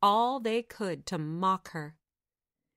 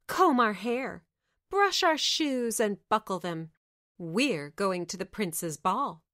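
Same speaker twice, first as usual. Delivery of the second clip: bossy stepsisters. Acted. Stepsisters bossing Aschenputtel.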